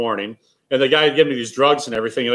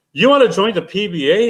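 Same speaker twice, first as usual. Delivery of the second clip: higher-pitched mock disbelief; retold scornful challenge; 6 semitones higher than usual. Bowler quoting his friend to a hopeless kid, scornful. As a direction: imitate a friend scoffing at a hopeful amateur.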